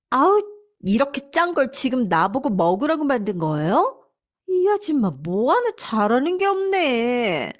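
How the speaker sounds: sharp, irritated and bossy with a scornful groan; rude young wife. Acted. Daughter-in-law berating the housekeeper, irritated and bossy. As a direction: sneer at the maid like a spoiled brat.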